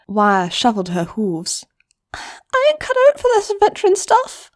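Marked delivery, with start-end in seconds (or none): 2.1-4.5 high, sheepish filly; much higher young voice, shy; Wire's voice. Acted. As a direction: mumble it bashfully. Wire answers shyly.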